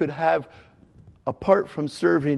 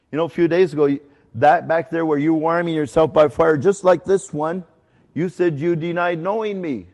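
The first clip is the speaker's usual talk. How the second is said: rising, louder and more accusing as it goes; accusing Jesus; 3 semitones higher, 5 dB louder than usual. Retold or imitated. Jesus rebuking Peter by the fire, building to an accusing push. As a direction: rub Peter's nose in his failure, building. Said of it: "But I don't hear Jesus saying this".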